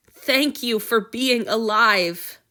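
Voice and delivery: slow, crying gratitude; tearful thanks. Acted. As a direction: choke out thanks through tears. Antony weeping with gratitude.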